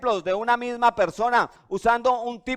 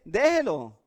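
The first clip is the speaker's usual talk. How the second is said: imitating a tranquil mother brushing it off; easygoing, mildly dismissive reassurance; unbothered calm. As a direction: wave it away calmly, as a patient mom would. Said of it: "ella está tranquila".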